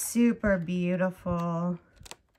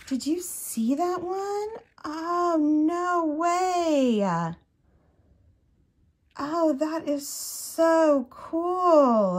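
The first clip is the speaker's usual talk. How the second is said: gasping, higher and thrilled; excited gasp; 8 semitones higher, much slower than usual. Real, not acted. Crafter gasping at a gorgeous crochet border. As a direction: squeal over a discovery, drawn out slowly.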